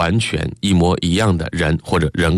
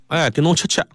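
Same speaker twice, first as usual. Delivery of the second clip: high-pitched Shanghainese quarrel line; lively Shanghainese dialect; 8 semitones higher than usual. Shown as a demonstration. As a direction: throw out the threat in Shanghainese, pitched up. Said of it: "上海话讲出来就不一样".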